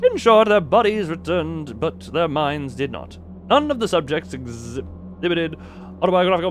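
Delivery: grim report read. Acted. Streamer reading the doctor's bleak experiment notes. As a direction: read the failure log gravely. Reading game's research log.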